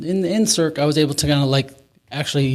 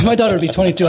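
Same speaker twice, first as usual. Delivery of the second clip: higher, incredulous repeat through a laugh; pitched-up protest with a chuckle; laughing disbelief; 7 semitones higher, 4 dB louder, faster than usual. Real, not acted. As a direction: laugh while protesting the absurdity. Repeats his objection, laughing, pitch jumps.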